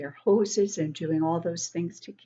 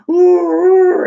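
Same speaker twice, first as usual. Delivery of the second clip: high, loud amazed ooh; 12 semitones higher, 14 dB louder than usual. Real, not acted. Reader reacting to the loud saw, high amazed ooh. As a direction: marvel at the noise.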